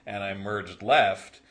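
slow, drawling mock Californian accent; Californian sketch accent. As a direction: draw out every word like a spoofed Angeleno accent. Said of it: "they just talk with that bizarre accent".

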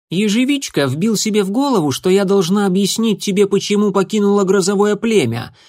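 put-on a defiant young she-cat, straight to the point. A narrator's reading. A former apprentice explaining herself to the leader, bluntly.

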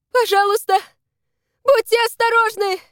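high, loud, strained plea; exhausted girl begs the rescuer to be careful. Acted. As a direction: force the words out with the last strength. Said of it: "сумела сказать она".

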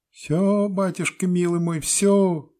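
very high, sing-song peasant woman. A narrator's reading. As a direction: trill it out happily, way up high. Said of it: "пела бабочка".

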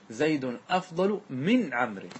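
"زيد أفضل من عمرو" slow, من stressed. Shown as a demonstration. Teacher corrects students, slowly stressing من. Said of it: "بل يجب أن تدخل من، فتقول".

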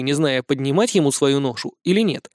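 plain reading voice

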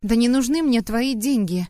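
wry, sad little laugh; sad chuckle. Acted. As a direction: say it with a bitter smile. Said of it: "грустно усмехнулась я".

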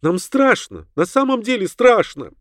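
high, anxious woman's voice; high-pitched scared appeal; frightened pleading. A narrator's reading. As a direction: plead in rising fear. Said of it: "стала умолять её".

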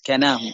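كناه with one short n; كناه said lightly, n not doubled; light consonant. Shown as a demonstration. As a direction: pronounce كناه as "kanahu", without shadda. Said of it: "أن تكون بالتخفيف".

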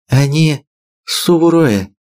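normal talking voice

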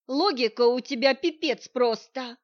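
loud, throwing-up-hands outburst; loud exasperated scolding; exasperated like an angry wife. A narrator's reading. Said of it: "всплеснул он руками, как злая жена".

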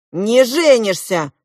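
loud, high, drawn-out outburst; shout. A narrator's reading. Klop forbidding the prince to marry, shouting. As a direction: cry it out in protest. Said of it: "крикнул Клоп".

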